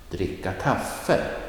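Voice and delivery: dricka kaffe, slow, stress on kaffe; phrase stress. Shown as a demonstration. Teacher repeating the example slowly. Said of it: "Look at the example".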